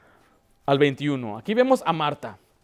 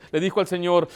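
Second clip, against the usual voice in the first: normal talking voice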